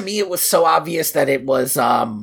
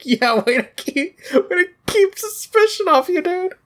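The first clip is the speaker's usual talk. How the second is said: sarcastic; 13 semitones higher than usual. Real, not acted. Sarcastic jab at suspicious gardener.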